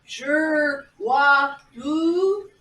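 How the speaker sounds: halting made-up syllables, spaced apart; one syllable at a time, questioning; mock foreign language. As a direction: lightly pretend to speak his tribal tongue. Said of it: "talk to him in his language".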